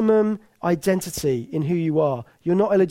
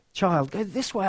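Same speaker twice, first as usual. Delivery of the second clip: tender guiding; 5 dB quieter than usual. Pretend. Lord's voice tender to child.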